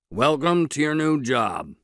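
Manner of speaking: serious. A narrator's reading. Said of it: "said Mordecai seriously".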